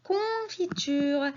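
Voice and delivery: "confiture" slowly, with a long "con"; teacher sounding out "confiture" for children; syllable by syllable. Shown as a demonstration. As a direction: stretch the first syllable of "confiture". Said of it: "la syllabe que j'entends".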